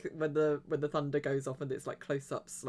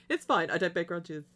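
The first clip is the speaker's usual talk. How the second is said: mock huffy; 2 semitones higher, 3 dB louder than usual. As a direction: say it like it's clearly not fine. Joking about lost subscribers.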